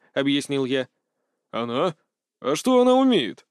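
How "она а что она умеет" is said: surprised. Acted. Old man doubts the girl, surprised question. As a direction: ask in disbelief, pitch jumping up. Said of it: "удивился старик".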